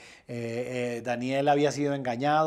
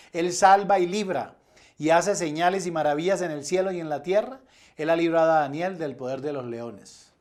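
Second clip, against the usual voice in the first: mildly raised, emphatic scripture reading; declaimed decree; 3 semitones higher, 5 dB louder than usual. Acted. Preacher reading the king's decree to the congregation, emphatic proclamation.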